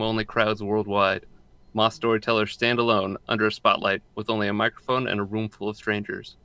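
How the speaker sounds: even, measured reading of an introduction; podcast blurb read-out. Real, not acted. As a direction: read the show description straight. Reads out podcast description.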